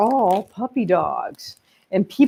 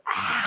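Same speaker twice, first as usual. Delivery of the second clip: lion's breath; 10 dB quieter than usual. Shown as a demonstration. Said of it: "That's actually lion's breath".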